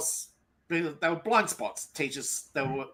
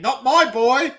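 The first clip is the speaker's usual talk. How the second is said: indignant mother; 7 semitones higher, 6 dB louder, slower than usual. Retold or imitated. Mother defending son, mocked.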